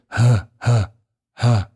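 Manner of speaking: ha with a light English h like hello; just a plain hello h on ha. Shown as a demonstration. Teacher showing the light ha. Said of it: "As for this ha, it's like similar to hello".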